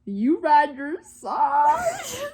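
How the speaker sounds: put-on cowboy accent. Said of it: "I'm not making the accent up".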